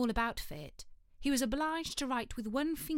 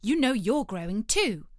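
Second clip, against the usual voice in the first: bold; 7 dB louder than usual. Acted. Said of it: "said Alice more boldly".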